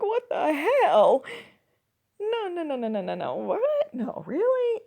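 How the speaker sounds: laughing, high loud "what the hell" disbelief; shocked disbelief. Retold or imitated. Retelling own shocked first reaction.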